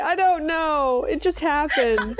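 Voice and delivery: laughing. Real, not acted. Giggling after her voice cracked.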